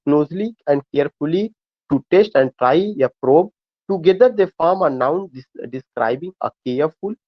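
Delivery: reading a textbook line slowly, word by word; slow dictation reading. Acted. Teacher reading a definition aloud to his students, slow and deliberate. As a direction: dictate it so students can follow. Reads English definition to class.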